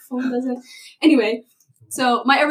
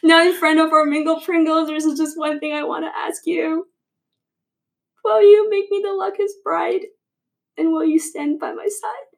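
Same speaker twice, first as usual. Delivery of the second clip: higher, louder heartfelt ask; nervous proposal; 4 semitones higher, 4 dB louder than usual. Real, not acted. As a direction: pop the question with rising nerves.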